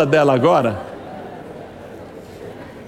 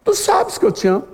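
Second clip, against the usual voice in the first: pleading repeat; 10 semitones higher than usual. Acted. Pastor repeats Peter's answer.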